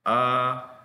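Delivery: relaxed central "Ah", like uh; demonstrated uh sound on "Ah"; schwa sound. Shown as a demonstration. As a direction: rest the tongue mid-mouth for "Ah". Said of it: "la lengua queda como en el centro".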